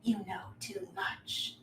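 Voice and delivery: slow, soft menace; menacing villain. Acted. Villain refuses to let the players run, soft slow menace.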